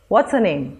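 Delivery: "What's her name?" with her light; unstressed her. Shown as a demonstration. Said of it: "the her is unstressed".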